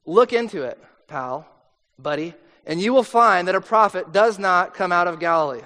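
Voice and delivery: a patronizing brush-off, pal and buddy; condescending. Retold or imitated. Leaders dismissing Nicodemus, patronizing. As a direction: talk down to him dismissively. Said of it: "this is really condescending".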